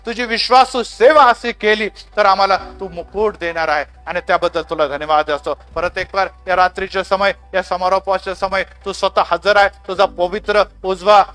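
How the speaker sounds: earnest, flowing prayer to God; fervent prayer. Real, not acted. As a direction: lead the congregation in heartfelt closing prayer. Leads the closing prayer.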